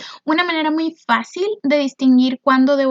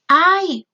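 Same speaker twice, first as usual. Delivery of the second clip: mock ouch ay; 5 semitones higher than usual. Shown as a demonstration. Teacher acts out the interjection ay for the class, mock pain. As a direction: yelp as if mildly hurt. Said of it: "esos sonidos que hacemos para expresar una emoción".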